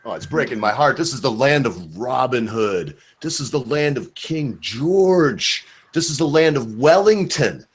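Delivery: slow, drawn-out rhetorical lament; mock lament. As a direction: grieve grandly, stretching each famous name. Mock lament for his country.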